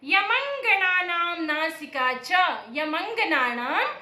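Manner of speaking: slow sutra chant; slow recitation. Shown as a demonstration. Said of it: "इसके लिए सूत्र है".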